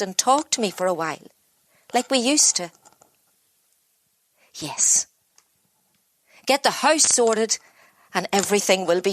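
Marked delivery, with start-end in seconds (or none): 4.5-5.1 breathy whispered yes. Acted. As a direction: barely voice it to herself. Exhausted self-talk.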